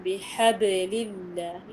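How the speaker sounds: teacher's slow demo of the ba in "بحبل"; tajweed correction. Shown as a demonstration. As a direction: slowly model "بحبل الله" with a clearly vowelled ba in بحبل. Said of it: "نحرك الباء".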